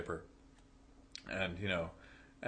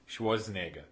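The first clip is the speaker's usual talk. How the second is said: imitated Boston accent, final R dropped. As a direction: slip into Boston on the name. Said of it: "full Boston".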